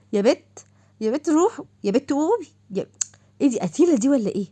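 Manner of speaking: exasperated wake-up calls to a sleeping friend; calling out to wake. Acted. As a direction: shake her awake with your voice.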